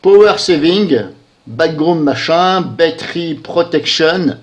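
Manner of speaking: slow English words read in a French accent. Real, not acted. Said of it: "Excusez-moi pour mon accent anglais".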